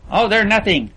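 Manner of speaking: lightly voiced scornful rich boy. A narrator's reading. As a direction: brush them off with scorn. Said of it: "Percy's mouth was a half moon of scorn".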